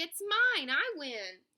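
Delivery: high, loud counterclaim; shouting. A narrator's reading. Squirrel contesting the race result, shouting. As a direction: shout to snatch the victory. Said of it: "shouted Hickory".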